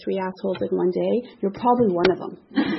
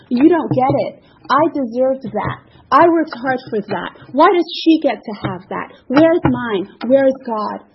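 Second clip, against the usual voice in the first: louder, higher whiny grievance; mock resentful rant; 3 semitones higher, 5 dB louder than usual. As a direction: demand what you think you're owed. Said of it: "All of the".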